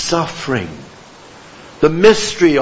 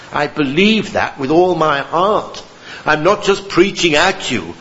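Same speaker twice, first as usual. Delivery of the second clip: normal talking voice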